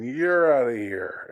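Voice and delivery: slow, loud umpire call; mock furious umpire; angry umpire. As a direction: throw them out of the game. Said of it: "you can see the anger".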